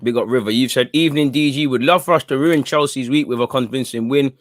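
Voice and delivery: talking around ice in the mouth; words slightly thick from ice. Real, not acted. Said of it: "Sorry, man, the ice in my mouth".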